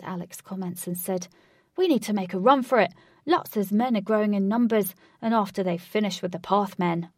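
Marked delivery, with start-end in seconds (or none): 1.8-7.1 urgent. Acted. Urgent escape plan.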